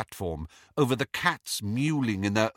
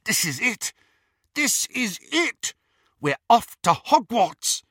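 put-on high, louder, thrilled boy; exhilarated; 13 semitones higher, 5 dB louder than usual. A narrator's reading. Snape thrilled to be heading to Hogwarts, high and eager. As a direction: burst with excitement. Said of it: "unable to suppress the exhilaration".

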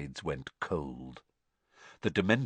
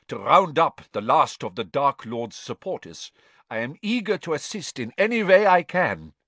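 higher, eager pleading voice; scared and oily, desperate to please; fawning prisoner; 6 semitones higher, 4 dB louder than usual. A narrator's reading. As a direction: Karkaroff begging the Ministry to be useful. Karkaroff pleads to the court.

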